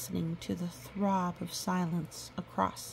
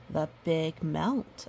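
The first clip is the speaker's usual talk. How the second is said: "the big melt" drawn out slowly as a proper name; slow weighted phrase; slower than usual. Shown as a demonstration. Pointing out another proper name, slow and weighty. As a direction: lean on "the big melt" like a title. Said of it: "again, proper name".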